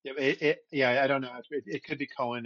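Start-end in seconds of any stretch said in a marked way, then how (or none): 1.5-2.5 "Cohen" in two syllables, KOH-in; pronunciation variant. Shown as a demonstration. Co-host guessing at variations of a surname, "Cohen" as KOH-in. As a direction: offer "Cohen" with a second syllable. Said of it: "which of the, which of the variations".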